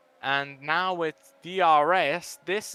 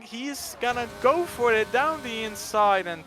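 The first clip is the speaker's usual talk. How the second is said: excited; 5 semitones higher than usual. Real, not acted. Overtake for the lead.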